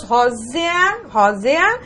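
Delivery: "rósea" with a short, weak E gliding into A; E said as semivowel. Shown as a demonstration. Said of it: "o E com pronúncia menor". ("rósea" com o E fraco, como semivogal)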